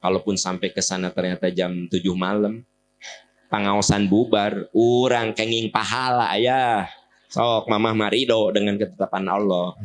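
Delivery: calm, forgiving exchange; gently acted reconciliation; accepting couple. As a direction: answer your spouse evenly, without complaint. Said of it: "Tapi kalau gini".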